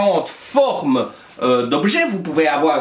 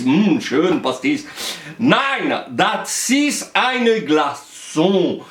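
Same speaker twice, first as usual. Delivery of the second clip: put-on German accent; much slower than usual. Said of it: "J'ai perdu mon accent".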